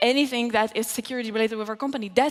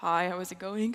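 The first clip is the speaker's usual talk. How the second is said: lowered, quieter, friendly, nice-sounding voice; 5 semitones lower, 5 dB quieter than usual. Demonstrating how a social engineering conversation starts: lowered, nice-sounding voice. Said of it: "I can lower my voice to this kind of like a nice sounding".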